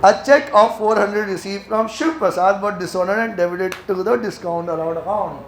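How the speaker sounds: very slow, deliberate reading aloud; slow dictation. Shown as a demonstration. Teacher reading the accounting question to the class, very slowly. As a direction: read the question out word by word.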